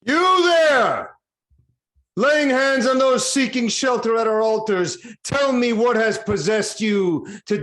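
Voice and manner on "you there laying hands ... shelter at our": sudden high shout across the altar; a king's loud challenge to the intruder; commanding shout. Acted. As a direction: bellow it out to stop him cold. King confronts herald at altar.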